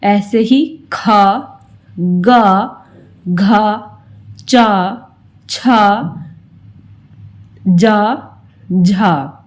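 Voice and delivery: drawn-out आ on each letter, खा गा घा; aa vowel drill. Shown as a demonstration. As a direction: give every letter a long aa ending. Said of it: "आ की मात्रा लगाई तो वह बन गया का". (लंबी आ की ध्वनि के साथ अक्षर बोलना)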